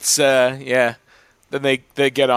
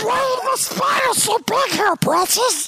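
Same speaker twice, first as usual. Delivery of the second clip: put-on very high shout with an Australian accent; shrieking Australian-accented Gollum rant. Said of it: "Now do Australian".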